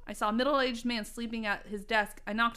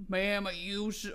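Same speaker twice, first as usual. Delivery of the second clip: sleepy confused man; slower than usual. A narrator's reading. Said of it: "he asked me, confused".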